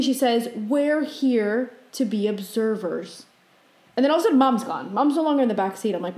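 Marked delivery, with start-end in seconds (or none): 0.5-3.2 slow, even retold answer; calm, measured. Dream guide answering a frantic passenger, slow and calm. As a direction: spell it out slowly and evenly.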